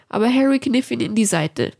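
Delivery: usual speaking voice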